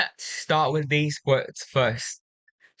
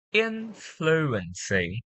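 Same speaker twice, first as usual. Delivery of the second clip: slow influency, stressed on IN; first-syllable stress; 2 semitones higher, slower than usual. Shown as a demonstration. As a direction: put the weight on IN of influency. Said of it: "The stress will be put at the first syllable".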